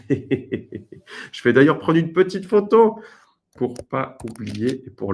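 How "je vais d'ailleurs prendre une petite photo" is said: slow, laughing through the words. Real, not acted. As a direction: chuckle as you speak. Laughing while speaking.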